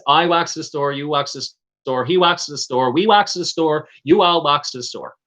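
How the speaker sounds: Newfie conjugation drill in a rhythmic run; singsong Newfoundland accent list. Shown as a demonstration. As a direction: reel off the forms in Newfoundland dialect. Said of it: "you don't have to conjugate any verbs".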